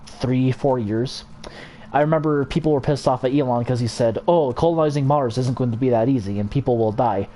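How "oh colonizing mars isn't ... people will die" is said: bad imitation of a South African accent; hammy, badly faked South African accent; Elon's South African accent. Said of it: "that was a horrible South African accent".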